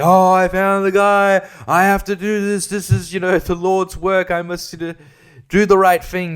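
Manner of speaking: sneering impression of a do-gooder; mock zealous do-gooder. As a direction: ham up a pious vigilante. Mocking Good Samaritans.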